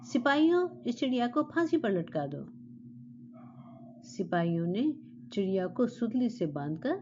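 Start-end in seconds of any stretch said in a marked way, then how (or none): 0.0-2.5 high shouted first word, then firm order; angry shout. Acted. Raging king shouts to guards to hang the bird. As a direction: bellow the guards' name. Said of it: "वह और जोर से चिल्लाया".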